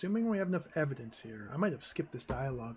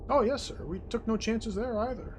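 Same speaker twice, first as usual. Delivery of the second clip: much higher, louder fawning reply; eager servant; 6 semitones higher, 4 dB louder than usual. Acted. Staff answers the boss, high fawning eagerness.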